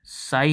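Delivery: "साई" sounded as sigh, with no p; pronunciation demo. Shown as a demonstration. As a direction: pronounce "साई" clearly, like sigh. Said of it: "pronunciation होता है इसका".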